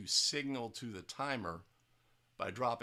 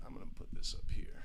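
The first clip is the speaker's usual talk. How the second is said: whispered aside; faster than usual. Real, not acted. Aside while setting up video.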